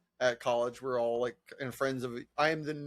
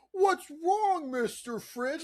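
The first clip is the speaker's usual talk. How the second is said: Pee-wee's Playhouse; 13 semitones higher, much slower than usual. Pretend. Asking a talking fridge its trouble, high hammed-up kids'-show voice. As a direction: coo over-eagerly at a puppet. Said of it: "Like it's Pee-wee's Playhouse".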